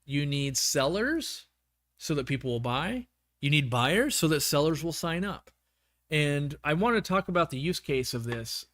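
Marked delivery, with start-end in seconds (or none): 3.4-8.6 talking with a worn-out voice; hoarse voice. Real, not acted. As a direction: voice going hoarse. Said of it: "I'm losing my voice".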